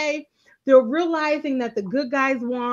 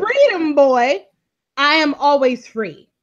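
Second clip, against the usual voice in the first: mock proclamation; 5 dB louder than usual. Podcaster performs Papa Pope's line for her co-host, loud and proclaiming. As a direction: boom it out like a stern father. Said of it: "The original quote from Papa Pope was".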